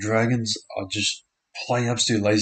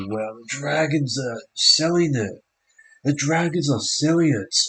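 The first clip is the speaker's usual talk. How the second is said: excited; 5 semitones higher than usual. Real, not acted. Reacting to the Dragons' play.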